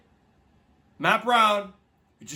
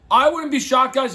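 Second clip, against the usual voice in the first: louder and higher on I; emphatic; 5 semitones higher, 5 dB louder than usual. Real, not acted. Vlogger telling viewers, emphatic and raised. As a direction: hammer home the prediction to the guys.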